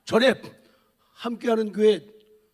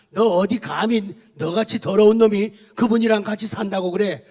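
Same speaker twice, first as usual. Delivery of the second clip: taunting tempter, louder and pushier; mocking devil taunting the congregation; devil's voice; 3 dB louder than usual. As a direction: sneer like the devil tempting a believer. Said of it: "마귀가 뭐라고 속삭여요?".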